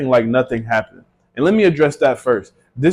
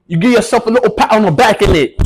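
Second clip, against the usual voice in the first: high, louder mock UK roadman; put-on British roadman, pitched way up; hammed-up roadman accent; 7 semitones higher, 4 dB louder than usual. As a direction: exaggerate the London roadman accent. Repeats line in roadman voice.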